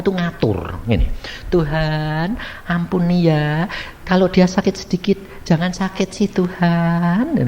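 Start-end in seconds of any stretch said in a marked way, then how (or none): 1.5-7.4 a demanding little prayer that tells God what to do; wrong prayer. Shown as a demonstration. Preacher mimics a wife bossing God about her sick husband. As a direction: pray as if giving God orders. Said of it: "kamu harusnya begini".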